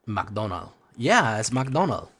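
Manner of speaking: Latino-accented "McDonald" with no final S; dropped final S. Shown as a demonstration. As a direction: say "McDonald" ending on the L. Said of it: "you're gonna drop S's".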